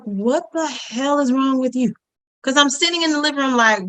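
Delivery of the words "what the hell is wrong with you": slow, incredulous demand; exasperated. Retold or imitated. Friend reacting to neighbour crying in the closet, exasperated. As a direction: draw it out in mild exasperation.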